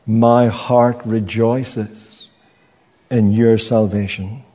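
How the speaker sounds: drawn out slowly, calm and sure; slow, sincere affirmation; slow confident declaration. Acted. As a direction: let each word settle like a promise. Congregation's confident declaration, slowed.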